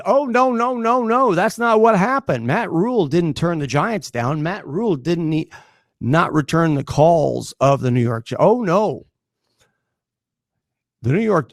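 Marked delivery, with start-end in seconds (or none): 0.0-9.1 high sing-song mocking denial. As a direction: mimic the media's fake denial, pitched way up. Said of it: "it's been reported".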